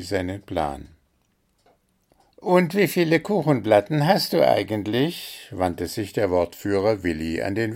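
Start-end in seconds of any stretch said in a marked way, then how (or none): 2.4-5.5 owl voice. A narrator's reading. Owl Willi asks Puh.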